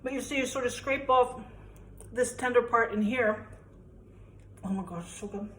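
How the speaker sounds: talking while chewing; words round a mouthful of artichoke; mouth full. Real, not acted. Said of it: "I shouldn't talk with my mouth full".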